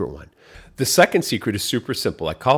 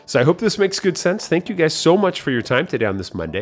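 bright sign-off; 4 semitones higher, 4 dB louder than usual. Real, not acted. Upbeat sign-off.

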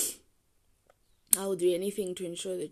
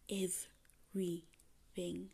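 whispered; 6 dB quieter, much slower than usual. Real, not acted. Whispers tenderly about cats.

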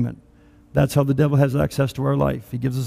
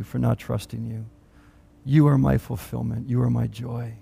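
tearful repentance prayer; 3 semitones lower than usual. Shown as a demonstration. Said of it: "Just say".

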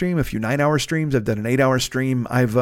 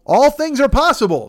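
Kevin Garnett yell; 10 semitones higher than usual. Retold or imitated. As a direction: belt it like a hyped athlete. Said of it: "says Kevin Garnett".

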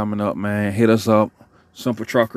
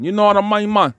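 mock Tony Montana Cuban accent, pitched much higher; a quick, hammy Scarface Cuban accent; 11 semitones higher than usual. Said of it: "that Jamaican and Scarface".

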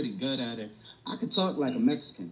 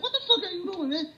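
high-pitched, laughing mock outrage; incredulous, through laughter; retold amused disbelief; faster than usual. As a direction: imitate her cracking up as she asks. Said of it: "She started laughing".

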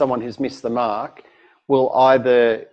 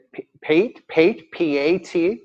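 puzzled barista; 2 semitones higher, slower than usual. Retold or imitated. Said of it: "They go".

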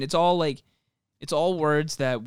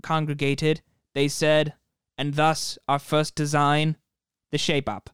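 slow solemn mock scripture, and lo; hammed-up epic storyteller; mock biblical narration; slower than usual. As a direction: intone it like an old chronicle. Mock biblical chronicle of Skechers.

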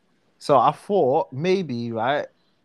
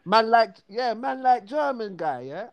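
higher South London greeting; friendly London slang hail; 8 semitones higher than usual. Shown as a demonstration. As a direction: greet him like a mate. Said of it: "I'll be like".

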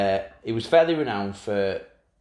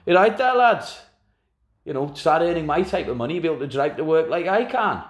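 flashy Savage taunt; 6 semitones higher than usual. Retold or imitated. Savage taunting youth players from his Lamborghini, cocky. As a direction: show off to the lads. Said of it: "pulls up beside him".

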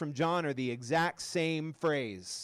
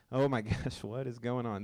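surprised; 9 semitones lower, 5 dB quieter than usual. Retold or imitated. Moses reacting to burning bush.

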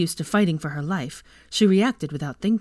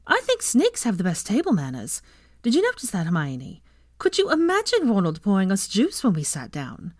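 put-on light, slightly raised girl's character voice; lively teasing Ginny; 3 semitones higher than usual. Ginny jokes to Hermione about snakes' table manners, lively teasing. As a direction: play a cheeky schoolgirl teasing her friend.

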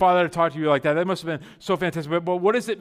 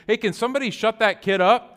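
raised, higher mock complaint; loud hallway voice; 4 semitones higher, 4 dB louder than usual. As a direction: imitate a loud guy calling down the hall. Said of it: "this, like, loud voice".

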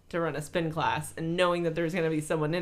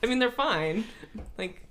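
groggy, hungover voice. Real, not acted. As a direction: sound worn out from a hangover. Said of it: "I'm so hungover".

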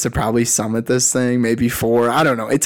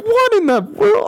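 retold shock; 4 dB louder than usual. Retold reaction at summit.

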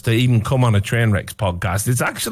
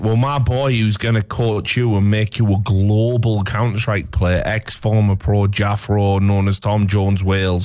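thick Welsh accent, pitched lower; strong Welsh accent; 6 semitones lower than usual. Real, not acted. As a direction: let the Welsh accent come out hard. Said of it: "your accent fucking came out hard".

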